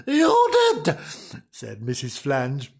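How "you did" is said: high, indignant contradiction; hammed-up bickering wife; sharp retort. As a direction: throw it back at high pitch. Wife contradicts cross husband.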